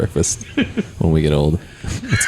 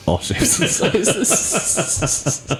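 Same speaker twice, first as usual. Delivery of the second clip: silly high voice; 12 semitones higher, much slower than usual. Acted. Small men joke, silly voice.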